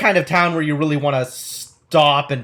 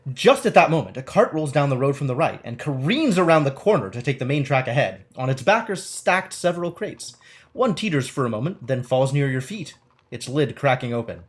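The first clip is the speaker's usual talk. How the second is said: measured game-book narration; story narration. Acted. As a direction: read it out like an adventure storyteller. Reads game text aloud.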